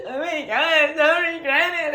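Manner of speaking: high, half-laughing sob-squeal; hammed-up teary declaration; laughing through mock tears; mock teary gush. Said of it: "I'm like".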